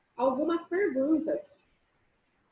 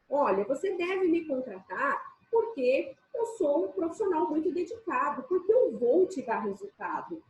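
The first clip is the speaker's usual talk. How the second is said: firm, selling. Shown as a demonstration. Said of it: "pôr uma firmeza no que você fala".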